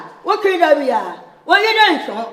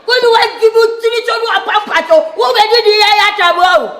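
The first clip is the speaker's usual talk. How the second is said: rapid rant; 4 semitones higher, 4 dB louder, faster than usual. Acted.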